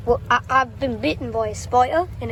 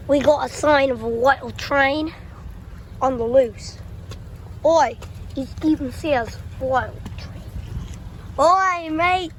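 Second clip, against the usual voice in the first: mock Australian accent. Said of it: "Oh, you know, Australian".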